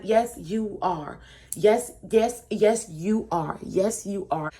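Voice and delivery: slow, punched repeats of "Yes, you are"; retold stubborn insistence; insistent contradiction. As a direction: imitate someone hammering the point home. Acted taunting insistence while spraying.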